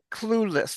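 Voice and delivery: "clueless" with a clear L; careful pronunciation. Shown as a demonstration. Accent coach modelling a clear L in the word. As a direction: draw out the L in "clueless". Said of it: "they can't say the word".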